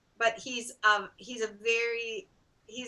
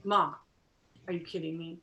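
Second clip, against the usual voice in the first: put-on skateboard kid; 4 semitones lower, 4 dB quieter than usual. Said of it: "like, skateboard kid style".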